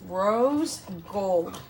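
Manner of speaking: "Rose gold" slow, each word drawn out and separated; really slowly. Shown as a demonstration. Mother taking care over a tricky color name, "Rose gold" really slowly. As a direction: say "Rose gold" carefully, with a gap between the words. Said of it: "I have to say it really slowly".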